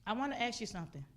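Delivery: lightly voiced God posing a solemn question; God's voice. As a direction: ask it deliberately, phrase by phrase. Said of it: "He said, God said".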